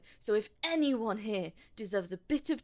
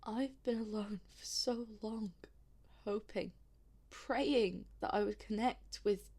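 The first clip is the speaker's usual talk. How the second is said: sad confession; 3 dB quieter than usual. Acted. Confesses loneliness and doom.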